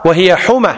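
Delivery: حمى said "ḥuma", with one short m; correct light mīm. Shown as a demonstration. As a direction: give حمى a quick single mīm. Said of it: "ما تقول حمى".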